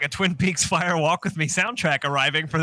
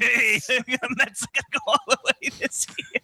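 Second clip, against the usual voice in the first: put-on Chicago accent, sports fan boast; 4 semitones higher than usual. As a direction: brag about the Mets in Chicago accent. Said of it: "Doing our Chicago accent".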